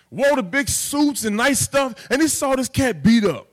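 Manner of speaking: animated street preaching, building high and loud; impassioned hood-dialect sermon; hood vernacular storytelling. Shown as a demonstration. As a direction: tell the parable to the neighborhood. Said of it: "this is how I'm gonna talk to my people in the hood".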